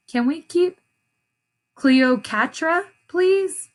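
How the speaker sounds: put-on high pleading child voice. A narrator's reading. Esperanza begging Mama to keep the kitten, high and pleading. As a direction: beg sweetly, stretching the name. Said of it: "asked Esperanza".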